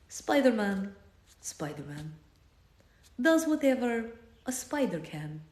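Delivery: slow, overdramatic Russian-accented recital with big pauses; dramatic reading in a Russian accent. Shown as a demonstration. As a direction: read it gravely like a Russian poet, then trail off soft. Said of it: "This is a dramatic reading of the Spider-Man theme song as done by the speaker".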